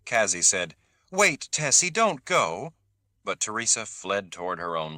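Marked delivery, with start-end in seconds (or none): 1.1-2.7 high pleading call; calling after. A narrator's reading. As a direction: call out to stop her. Kazi calling after Teresa.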